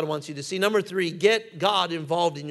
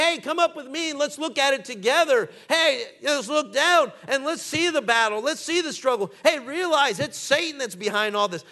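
urging voice of God; 5 semitones higher than usual. Retold or imitated. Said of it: "And you'll say".

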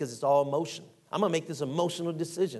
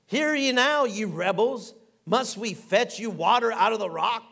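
Moses losing his temper, voice lifted; upset Moses; 3 semitones higher than usual. Retold or imitated. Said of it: "He's upset".

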